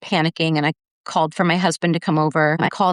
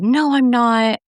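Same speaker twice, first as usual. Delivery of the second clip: higher, upset protest; retold angry denial; 5 semitones higher, 4 dB louder, slower than usual. Drunk son denies it to his mother, retold upset and angry. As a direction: imitate an indignant, defensive denial. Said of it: "getting really upset and angry".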